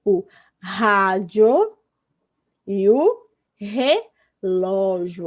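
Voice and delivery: rádio and relógio drawn out slowly, each R like H; slow teacher demo of "rádio", "relógio" with aspirated R; strong initial R. Shown as a demonstration. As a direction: stretch rádio and relógio, opening on a clear H-like R. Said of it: "ela vai ter som de".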